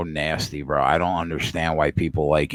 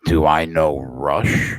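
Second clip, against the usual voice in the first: slow, mock-offended disbelief; stretched, sarcastic comeback; incredulous echo; 2 semitones lower, slower than usual. Real, not acted. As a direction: repeat it as if the question is absurd.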